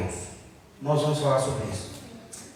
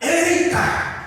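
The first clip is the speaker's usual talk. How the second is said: sudden high, loud shout; imitated shout; 12 semitones higher, 4 dB louder than usual. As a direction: cry it out like someone up in the gallery. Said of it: "ele gritou assim".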